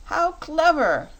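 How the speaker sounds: high, slow, loud "How clever!"; a fox king delighted by a clever child; delighted exclamation. Acted. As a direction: gush with royal delight. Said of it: "exclaimed the king".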